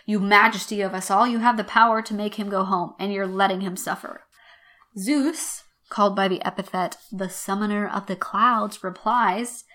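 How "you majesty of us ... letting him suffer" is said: accusing paraphrase. Acted. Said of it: "Then she says".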